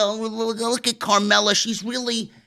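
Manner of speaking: soft, breathy mock fan voice, slowing at the end; hushed swooning imitation of online fans; lightly voiced gushing fan. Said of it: "People were going crazy on social media".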